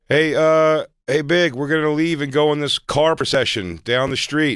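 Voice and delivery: mock biopic dialogue. Acted quote from biopic ending.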